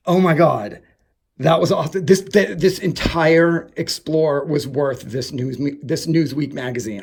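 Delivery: high, loud, breathless gush; can barely get the words out for joy; excited gushing. Real, not acted. Vlogger thrilled by the Newsweek find, gushing loudly. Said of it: "I'm so excited".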